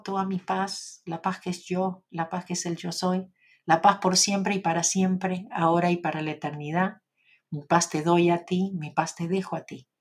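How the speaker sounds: bestow the peace on each listener like a blessing; recited peace blessing. Acted.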